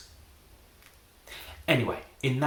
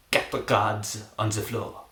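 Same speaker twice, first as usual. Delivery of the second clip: mock French accent, drawn out. Shown as a demonstration. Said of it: "that's better in English".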